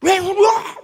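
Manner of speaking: high, loud acted outburst; imitated angry shouting. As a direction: yell it like a fed-up child. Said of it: "막 소리를 치고 화를 내겠죠".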